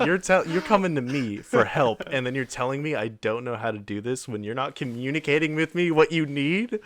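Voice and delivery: venting the rant she wished she'd said; hurt indignation, pushed high and loud; retold upset rant. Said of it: "I was so upset".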